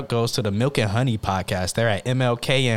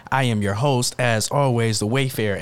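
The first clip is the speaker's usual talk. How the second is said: town crier; slower than usual. Pretend. Podcast intro, hear ye announcement.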